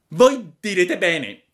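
fussy high puppet demand; a picky wooden boy making terms. Acted. Pinocchio pretende che Geppetto sbucci le pere, voce acuta.

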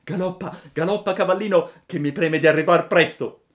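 high, loud, gleeful puppet cry; delighted child rider calling out; joyful shout. A narrator's reading. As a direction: urge your steed on, thrilled. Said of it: "gridò tutto contento".

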